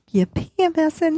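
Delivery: husband asking. Retold or imitated. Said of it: "He goes".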